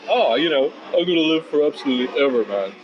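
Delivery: airy, carefree know-it-all voice, lightly put on; mock carefree dude. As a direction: lightly play someone who thinks they'll live forever. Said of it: "we go around as if".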